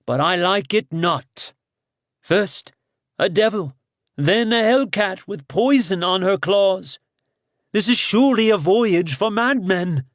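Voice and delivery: a reluctant ally sighing at the madness; dismal. Acted. Bagaz admits the plan's truth but complains, dismal and high. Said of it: "then added dismally".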